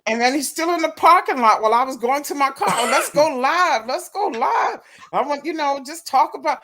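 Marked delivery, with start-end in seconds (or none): 2.7-6.6 pitched up, hammed-up eager pleading; mock his pestering in a high voice. Imitating the man chasing her to her car, high and pushy. Imitating him in parking lot.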